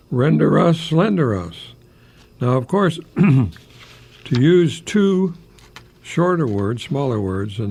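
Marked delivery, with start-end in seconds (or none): 0.1-1.7 rhyming recital. Shown as a demonstration. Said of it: "you get the whole poem there".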